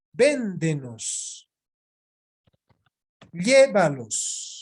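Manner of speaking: slow, first syllables of "Véndenos" and "Llévalos" drawn out; esdrújula stress. Shown as a demonstration. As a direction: lean on VÉN in "Véndenos" and LLÉ in "Llévalos", slowly. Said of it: "Todas se han convertido en esdrújulas".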